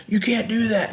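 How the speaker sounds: high, mocking indignant voice; a high mock protest; mocking the friend. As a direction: parody his outrage. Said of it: "his friend's like".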